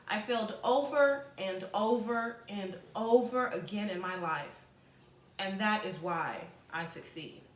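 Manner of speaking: steady read-aloud voice for the class. Acted. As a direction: read the passage clearly to students. Teacher reads passage aloud.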